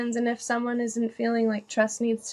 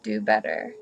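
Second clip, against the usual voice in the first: slow quote; 2 semitones lower than usual. Retold or imitated. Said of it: "there's a saying".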